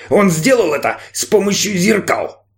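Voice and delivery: snide, mocking robot voice; a touch of sarcastic machine. A narrator's reading. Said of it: "ехидно сказал робот".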